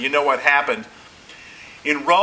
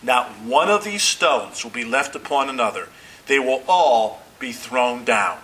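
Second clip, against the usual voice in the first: calm, lower-pitched pronouncement; calm Jesus; 4 semitones lower than usual. Retold or imitated. Jesus answering his apostles about the temple stones, calm. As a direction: let the pitch settle low, measured and sure. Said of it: "Jesus in a calm voice says".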